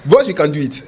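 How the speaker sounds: put-on light French accent on the chef's line; a hint of a French accent, chef reassuring his boss. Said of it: "with his French accent".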